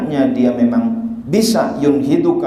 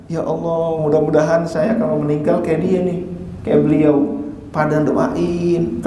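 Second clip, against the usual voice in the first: wistful prayer; 3 semitones higher than usual. Retold or imitated. Visitor wishing to be prayed for likewise, wistful. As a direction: imitate a hopeful murmured wish to God.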